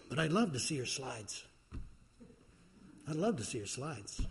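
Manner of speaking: mildly gentle, unhurried welcome; gentle voice of God. Retold or imitated. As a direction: say it kindly, without any push. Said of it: "in a gentle voice saying".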